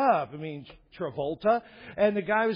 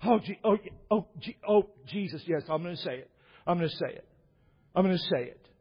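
imitated fake-weeping preacher; faster than usual. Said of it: "then he goes like this".

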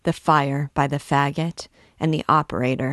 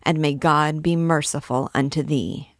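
solemn, measured pronouncement; mildly funereal priestly blessing; funereal tones. A narrator's reading. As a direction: send off the condemned with grave formality. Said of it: "he exclaimed in funereal tones".

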